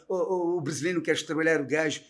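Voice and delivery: mock grumble in European Portuguese accent. Imitating a local in Portugal on Brazilians, European Portuguese accent. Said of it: "Você chega em Portugal".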